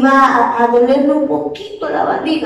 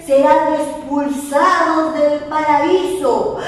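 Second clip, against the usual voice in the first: annoyed God; 3 semitones higher than usual. Acted. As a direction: pronounce the sentence with displeasure. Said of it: "con una voz molesta le dijo". (Dios molesto, voz lenta y severa)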